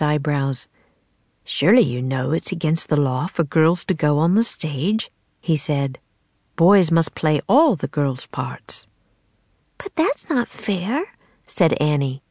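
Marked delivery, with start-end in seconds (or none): 1.4-8.9 put-on old-fashioned playwright. The playwright explaining the law to Annie, stately. 9.8-11.0 put-on high, slow protesting little girl; a child objecting to injustice; indignant girl. Annie protesting the law to the man, high and slow.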